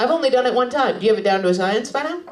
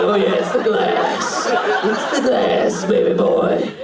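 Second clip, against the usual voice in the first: slow, lightly acted sultry reply; teasing woman; 3 semitones lower, slower than usual. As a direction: draw it out, playfully teasing a lover.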